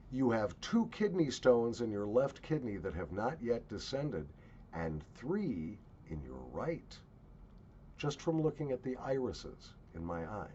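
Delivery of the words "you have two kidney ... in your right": lightly voiced medicine man, measured; understated imitation of a healer's pronouncement; medicine man's diagnosis. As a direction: deliver a quoted diagnosis evenly, slowing at the end. Quotes medicine man's calm diagnosis.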